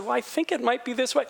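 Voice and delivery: tentative, open-minded offering; humble suggestion. Retold or imitated. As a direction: float the idea gently. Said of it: "Do you hear the difference?".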